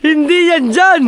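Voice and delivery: loud, high-pitched correction; calling out. Real, not acted. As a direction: call it out sharply to a workmate. Calling out a correction during building work. (pasigaw na pagtutuwid)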